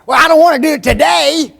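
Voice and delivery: put-on high, loud, laughing kid's whine; mock the lazy kid's excuse; the young worker turning down the offered shift, in a laughing high whine; whiny refusal. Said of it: "employee refusing the shift".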